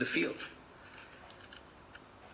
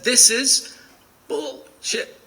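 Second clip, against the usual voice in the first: loud, higher, angry retold yell; imitating a screaming heckler; 10 semitones higher, 6 dB louder, much slower than usual. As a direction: recreate the angry shout from the back of the room. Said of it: "starts screaming".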